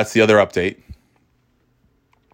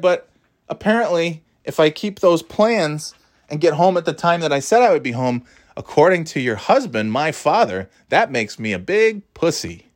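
raised-pitch mock yell; imitated yelling; 6 semitones higher than usual. Son telling on dad across the driveway, mock yelled complaint. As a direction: call it out high, without full volume. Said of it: "yelling this to her from across".

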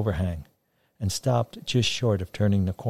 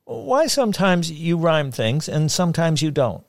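put-on small boy voice; 8 semitones higher, 4 dB louder than usual. A narrator's reading. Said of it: "burst in with a sudden sound of a question".

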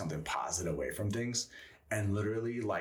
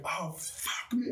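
dismayed groan; 13 semitones higher, slower than usual. Retold or imitated. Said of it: "I'm like".

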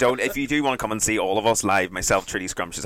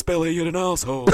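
mock angry dad; 7 semitones higher than usual. Voicing Billy Elliot's dad.

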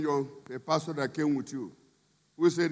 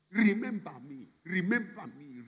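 pleading cry; 2 semitones higher than usual. Acted. Preacher voicing Joseph begging the butler, fading plea. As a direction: beg to be remembered, dying away. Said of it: "That is the cry".

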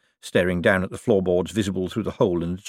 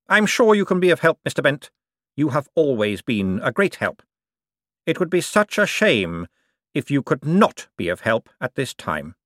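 higher, falsely kind voice; veiled-threat Cosmo; 6 semitones higher than usual. Acted. Cosmo tells Bent to be of help, sweetly threatening. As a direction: press gently, with pointed emphasis.

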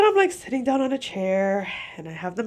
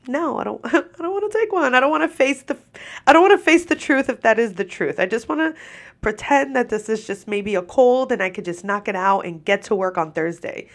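whiny; 3 semitones higher than usual. Retold or imitated. Whiny retold refusal.

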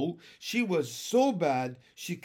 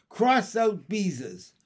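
slow, loud shout, higher; 5 semitones higher, 7 dB louder, slower than usual. A narrator's reading. Ramona shouts at her sister in a fury. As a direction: fling the words out in a tantrum.

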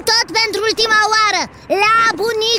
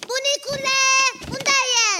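searching call to an unseen grandpa; 3 semitones higher than usual. Acted. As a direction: call out to find him. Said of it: "Strigă-l cum vrei". (strigare în căutarea bunicului)

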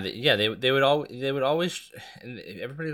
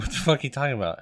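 imitated woman's reaction; 6 semitones higher, 6 dB louder, faster than usual. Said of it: "And be like".

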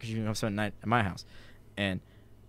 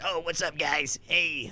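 imitating a creepy buddy, higher and soft; creepy greeting; 4 semitones higher, 3 dB quieter, slower than usual. Friend's older brother's buddy greets the guys, creepy. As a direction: put on a creepy, drawn-in hello. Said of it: "This is how he talks to you. Hella creepy".

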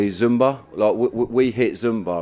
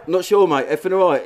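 mock innocence; 9 semitones higher, 5 dB louder than usual. Innocent reply to victim.

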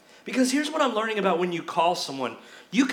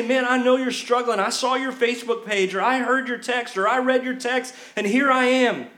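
earnest caring friend; 3 semitones higher than usual. Pretend.

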